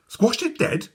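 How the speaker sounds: high startled question; high shocked boy. A narrator's reading. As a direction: gasp it out. Matthew shocked.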